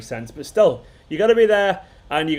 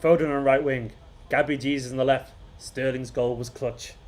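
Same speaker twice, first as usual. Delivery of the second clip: measured recital, falling on each line, fading softer at the end; proper haiku recital; 3 semitones lower, 3 dB quieter than usual. Shown as a demonstration. Streamer re-reading the winning haiku as a poem. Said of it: "I gotta say it like a proper haiku".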